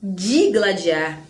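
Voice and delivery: "Digladiar" low and slow, opening on DI; correct pronunciation. Shown as a demonstration. Teacher repeats the proper form, correct pronunciation. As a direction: draw out "Digladiar" with a clear DI. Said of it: "ninguém fala isso".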